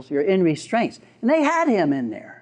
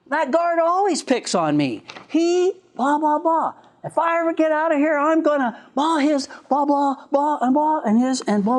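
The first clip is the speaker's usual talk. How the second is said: imitated high-pitched angry griping; mock tirade, pitched up; ranting inmate; 9 semitones higher than usual. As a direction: vent a grievance in a hurried high rant. Voicing the angry inmate's rant.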